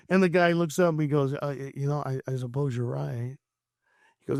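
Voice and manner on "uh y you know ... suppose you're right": subdued. Retold or imitated. Voices the subdued, shaken father.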